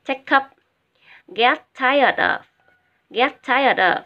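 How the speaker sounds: "Take up" linked as tei-kup, "Get tired of" joined up; linked model reading. Shown as a demonstration. Teacher telling students to link words, "Take up" said as tei-kup. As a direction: join each final consonant onto the next word in "Take up" and "tired of". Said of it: "Đọc nói luôn nha các em".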